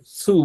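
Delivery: সু with tongue pressed to the teeth; tight, fronted consonant in সু; tongue against teeth. Shown as a demonstration. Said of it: "জিহ্বা একটু দাঁতের মধ্যে চেপে".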